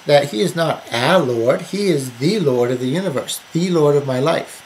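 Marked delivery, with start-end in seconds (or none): 0.9-1.6 "a" stressed in contrast; emphatic "a" before Lord. Shown as a demonstration. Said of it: "we're emphasizing that". 2.2-4.6 "the" stressed each time; emphatic "the", meaning the one and only. Shown as a demonstration. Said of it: "we're emphasizing that".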